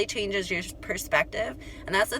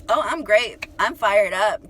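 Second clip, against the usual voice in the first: fired up; 6 dB louder, slower than usual. Retold or imitated. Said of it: "'cause I just got off this, like, really annoying call".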